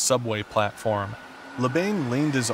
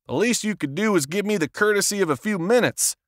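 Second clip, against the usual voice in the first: angry; 7 semitones higher than usual. A narrator's reading. Labane keeps yelling at agent.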